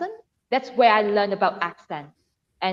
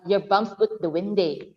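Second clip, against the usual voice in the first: Scottish accent. Shown as a demonstration. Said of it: "it has to be in Scottish accent".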